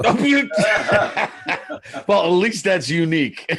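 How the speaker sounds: high-pitched laughter breaking through the words; laughing hard. Real, not acted. Brother cracking up at the town name Dildo, high laughing.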